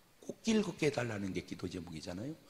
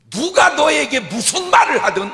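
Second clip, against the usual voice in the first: 높고 크게 외치며; 회중에게 힘주어; 20 dB louder than usual. Real, not acted. (높게 외치는 강조)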